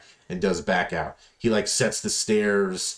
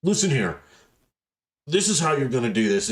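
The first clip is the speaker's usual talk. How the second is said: lightly voiced raspy boss, pitched up; Cheese bossing; 5 semitones higher than usual. Coworker showing how to use the saw, light raspy imitation. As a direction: imitate a gruff little instructor, mildly raspy. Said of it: "real raspy voice".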